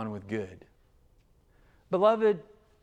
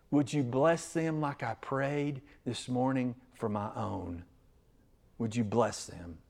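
prayer. Acted. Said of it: "your response is".

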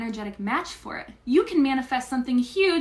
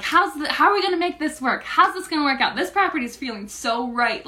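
retelling her own giddy excitement, pitch higher; quick eager questions, higher and louder; excited; 4 semitones higher, 4 dB louder than usual. Retold or imitated. Recalling to viewers how thrilled they felt at the dream property. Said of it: "we're like".

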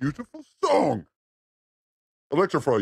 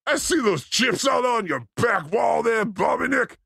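slow, playful shout. Real, not acted. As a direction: tease him with a shout. Shouting to a friend.

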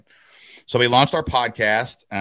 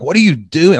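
higher, louder mock disbelief; imitating a stunned friend's outburst; baffled outcry; 9 semitones higher, 10 dB louder than usual. People baffled he quit job.

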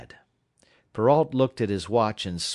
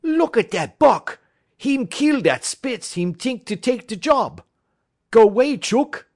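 much higher, loud, laughing-edged French-Canadian cry; gleeful French-Canadian shout; 8 dB louder than usual. Acted. Francois shooing Buck from Sol-leks's place, gleeful French-Canadian shout. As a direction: shout at the dog in amused delight. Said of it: "he cried".

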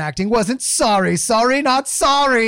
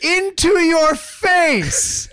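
fired-up rant. Acted. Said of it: "I've never seen him so fired up".

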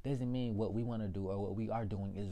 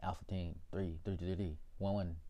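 mock agent radio call; 4 semitones lower, 4 dB quieter than usual. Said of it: "I can't be like".

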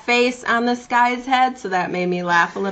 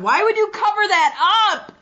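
high, incredulous squeal; shocked high-pitched; 11 semitones higher than usual. Real, not acted. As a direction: squeal it in disbelief. Shocked at unmasked wrestler photo.

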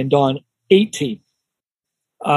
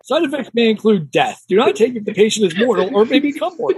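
ad announcer voice; 4 semitones higher than usual. Pretend. Mock ad side effects read.

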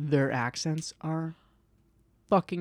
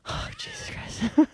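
exasperated; slower than usual. Real, not acted. Exasperated at herself.

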